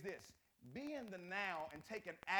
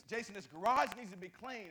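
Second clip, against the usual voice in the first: imitating wife; 4 semitones higher, 12 dB louder than usual. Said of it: "she was".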